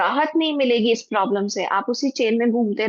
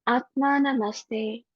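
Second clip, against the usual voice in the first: softer, slow Atma Namaste; very gentle; 5 dB quieter, slower than usual. Shown as a demonstration. Teacher showing students the greeting, very gently. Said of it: "very gently say".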